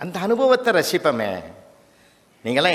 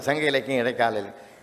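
quieter, lower echo of the words; 4 semitones lower, 4 dB quieter than usual. Retold or imitated. The judge hears his words repeated back, a fainter lower echo. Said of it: "அதே repeat ஆகுது".

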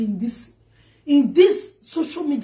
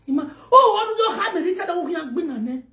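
bursts out laughing through the words; 5 semitones higher than usual. Real, not acted. Laughing at her own joke to viewers, laughing. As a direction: laugh while you talk, real amusement.

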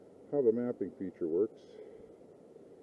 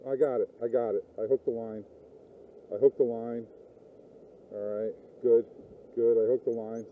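real excited relief, a bit louder; 4 dB louder than usual. Real, not acted. Angler hooks his lost line, excited relief. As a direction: blurt it out, thrilled to have it back. Snapped braid line hooked back.

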